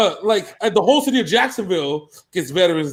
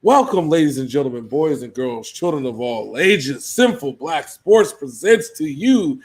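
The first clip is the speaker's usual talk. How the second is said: ringmaster; 7 semitones lower than usual. Acted. Ringmaster-style show intro.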